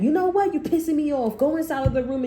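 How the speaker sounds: put-on a toxic mother ordering the child away; hammed-up demonic rage; angry possessed mother. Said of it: "they act like that".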